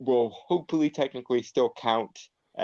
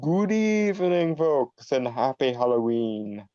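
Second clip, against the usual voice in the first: theatrical greeting; 3 semitones higher than usual. Acted. Co-host greeting listeners on Halloween, theatrical. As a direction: stretch out a showy Halloween welcome.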